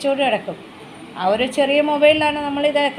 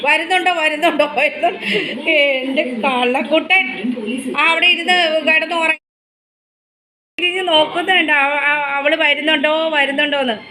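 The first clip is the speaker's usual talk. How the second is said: higher, louder fond telling; doting pet talk; 4 semitones higher, 3 dB louder than usual. Real, not acted. Mother telling the pet's antics, doting. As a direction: recount it fondly to the pet. Keeps doting voice while recounting.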